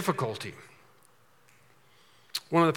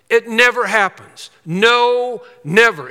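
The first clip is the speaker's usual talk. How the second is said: loud, high, punched never; preacher insisting God never drops us, loud; emphatic never; 6 semitones higher, 8 dB louder, slower than usual. Acted. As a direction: hammer the word never.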